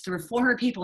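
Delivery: usual speaking voice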